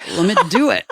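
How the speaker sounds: mock eager surgeon with a laugh; jokey exaggerated quote; hammed-up doctor. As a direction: imitate an overkeen doctor, breaking into laughter. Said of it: "He didn't talk like that".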